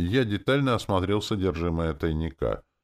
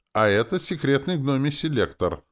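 much higher and louder, a grand unveiling; mock-ceremonial showing-off; solemn announcement; 11 semitones higher, 5 dB louder than usual. A narrator's reading. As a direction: present it like a state secret. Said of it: "торжественно сказал Валера".

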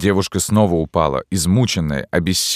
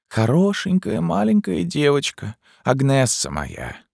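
high, slow, dazed mother lost in grief; grieving madwoman speaking in a trance; recluse as if in a trance; 5 semitones higher, slower than usual. A narrator's reading. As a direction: drift through it like a broken madwoman. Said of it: "как бы в забытии".

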